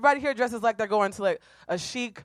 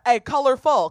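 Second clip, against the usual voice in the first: lightly imitated street catcall; mock catcaller; 3 semitones higher, 4 dB louder than usual. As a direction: call out like a passing catcaller. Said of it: "the cat calls, there was a theme emerged".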